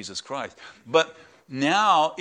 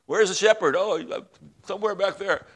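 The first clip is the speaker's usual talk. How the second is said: lightly voiced lost sheep, higher pitched; mildly hammed-up lost sheep, raised pitch; stray sheep; 5 semitones higher than usual. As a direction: wonder aloud as a straying sheep. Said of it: "If a sheep strays off".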